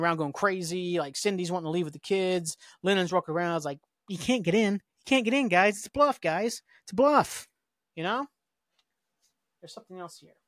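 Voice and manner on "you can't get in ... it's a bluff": higher-pitched mock plea to a crowd; imitated urgent warning. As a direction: act out warning a panicking group, pitch up. Imitating a man warning the panicking crowd.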